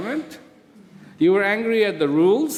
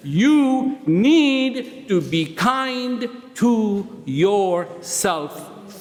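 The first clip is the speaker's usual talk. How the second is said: slow insistent preaching; much slower than usual. Acted. Slow preaching build with drops.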